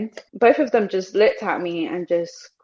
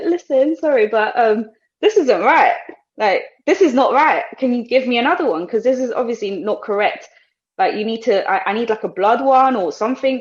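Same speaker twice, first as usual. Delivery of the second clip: insistent denial; 4 semitones higher, 4 dB louder than usual. Retold or imitated. Retold pleading with receptionist.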